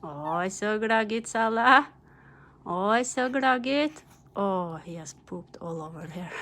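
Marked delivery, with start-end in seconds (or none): 0.0-4.0 excited praise. Real, not acted. Praising the dog, baby talk.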